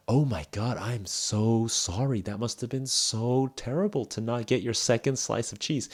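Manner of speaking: exaggerated mock sympathy for a trivial loss; over-the-top sympathy. Shown as a demonstration. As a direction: overdo the sorry as a joke. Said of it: "it's too much".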